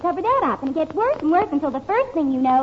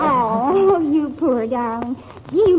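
tender; much slower than usual. Acted. Wife comforts nervous husband.

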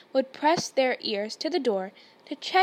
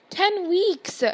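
sharp, higher, louder snap; snapped; 7 semitones higher, 5 dB louder than usual. Acted. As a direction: bite the words off. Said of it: "Hermione snapped".

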